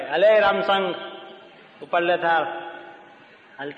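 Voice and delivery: a rich man barking orders at the help; bossy rich man. Retold or imitated. Rich man ordering his servant.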